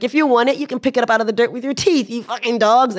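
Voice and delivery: hammed-up contemptuous taunt, hurried in the middle; retold drunk taunt. Drunk man taunting the crowd after throwing money, mock angry. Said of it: "And he's like".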